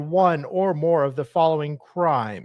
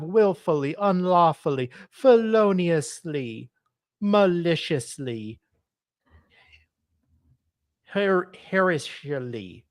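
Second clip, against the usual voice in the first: put-on Hispanic accent. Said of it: "I'm trying to do a Hispanic accent".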